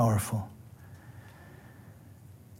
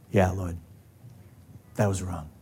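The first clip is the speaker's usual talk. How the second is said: humble confession; 8 semitones lower, 12 dB quieter than usual. Retold or imitated.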